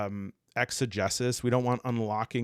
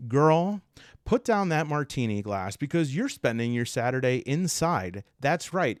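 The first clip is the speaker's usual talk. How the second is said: sassy Myers-Briggs. Acted. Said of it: "And they're like".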